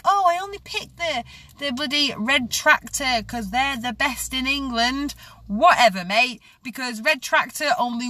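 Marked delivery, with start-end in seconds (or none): 0.0-5.1 much higher, prissy mock of a proud shopper; mocking quote. The vlogger mimics red tractor buyers, mocking and high. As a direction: lift up and mock their smug pride. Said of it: "for those who are like".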